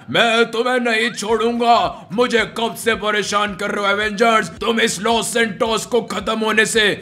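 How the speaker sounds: deep gloating zombie villain. Acted. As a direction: gloat like an evil zombie boss. Villain threatens.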